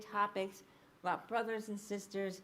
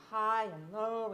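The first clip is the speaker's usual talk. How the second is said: high and low swoop; 4 dB louder, slower than usual. Shown as a demonstration. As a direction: pitch swinging from HIGH down to LOW. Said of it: "I would be all over the place".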